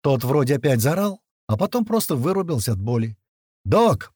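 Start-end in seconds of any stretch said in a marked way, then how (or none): 3.6-4.1 short, high call. A narrator's reading. Fighter summoning the medic to wounded captive, calling out. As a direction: call for the doctor. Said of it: "позвал его Туман".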